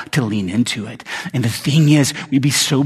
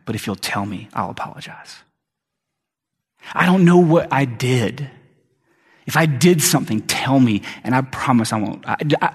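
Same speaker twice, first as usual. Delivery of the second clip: tearful wife; 2 semitones lower than usual. Retold or imitated. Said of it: "she begins to tear up, and she says".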